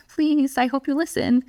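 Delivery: high, pleading and unsure; hope they listen, don't expect it; uncertain pleading. Retold or imitated. Parent hoping child will listen, uncertain and pleading. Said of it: "When your tone communicates".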